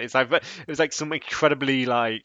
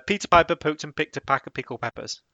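tongue twister; 4 semitones higher than usual. Shown as a demonstration. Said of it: "Very good".

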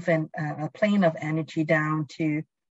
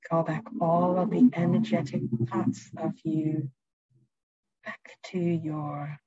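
calm, unhurried guiding voice; guided meditation. Acted. Leads a presence meditation.

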